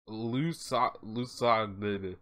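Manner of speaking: luso- tried haltingly; unsure stab at the word; stumbling on a word. Real, not acted. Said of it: "I don't know what that means".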